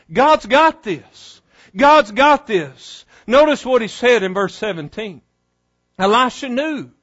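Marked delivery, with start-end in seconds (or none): 0.1-3.0 slow, deliberate refrain; slow reminder. Shown as a demonstration. Preacher reminding his people, slow and deliberate. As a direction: remind them gently but firmly. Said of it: "we need to be reminded".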